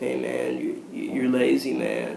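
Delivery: put-on drunk or stoned voice. Demonstrating one line in different styles, now like a drunk or stoned person. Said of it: "a drunk or a stoned person".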